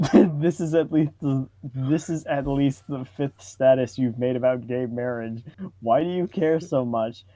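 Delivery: ordinary talk, nothing marked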